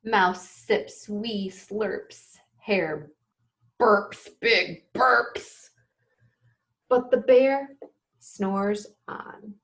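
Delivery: slow, lilting bedtime storytelling; reading to children. A narrator's reading. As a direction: read it gently to little listeners.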